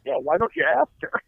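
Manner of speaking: mock-agreeable sarcasm; sarcastic. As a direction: lay the sarcasm on thick. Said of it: "as much sarcasm as I possibly could".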